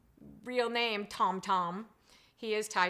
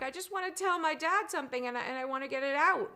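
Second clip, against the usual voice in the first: higher-pitched imitated plea to be heard; mildly exasperated younger self, pitched up; retold venting; 6 semitones higher than usual. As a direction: act out wanting to vent. Retelling her venting to Dad.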